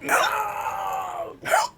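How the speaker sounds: very high, frantic mock cry for milk; choking panicked plea. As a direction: squeal it out like you're choking on bread. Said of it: "you're like".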